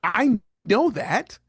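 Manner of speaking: mock obviousness. Voicing the listener who thinks the advice is obvious, mock obviousness. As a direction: imitate someone finding it blindingly obvious. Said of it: "you would hear that and you would think".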